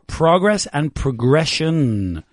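progress and progression set apart slowly; contrast stress. Shown as a demonstration. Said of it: "So you've got".

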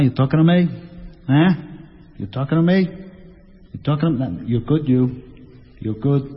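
lightly voiced tough-guy challenge; clipped movie line, a hint of menace; Robert De Niro. Actor challenging someone in the mirror, lightly voiced tough-guy impression. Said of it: "échate un Bobby De Niro".

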